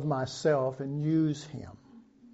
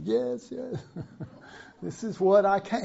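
higher, gently insistent yes; Jesus answering; 6 semitones higher than usual. Acted. Preacher voices Jesus answering his mother, gently insistent. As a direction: affirm it kindly with a little laugh. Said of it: "And he's going".

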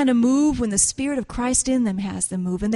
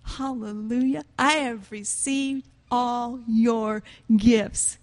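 gentle voice of the Lord; slower than usual. Acted. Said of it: "And the Lord said".

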